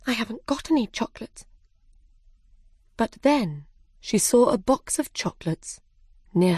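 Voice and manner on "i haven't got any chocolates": higher, softer, quick aside; Alice thinking to herself. Acted. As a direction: fret privately in a small voice. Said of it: "thought Alice".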